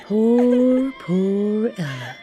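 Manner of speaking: ordinary delivery, nothing marked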